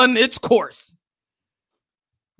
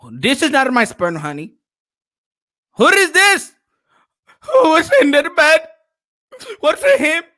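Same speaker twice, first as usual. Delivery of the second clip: mock suspicious husband; 3 semitones higher than usual. Husband confronting his wife, mock outraged. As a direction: play the jealous husband a bit over the top.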